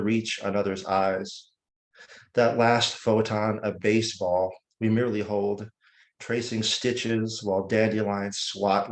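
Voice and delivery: measured poem recital with deliberate pauses; unhurried, elegiac poem reading; poetry reading. Acted. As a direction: recite it line by line, letting each image land. Reads own poem aloud.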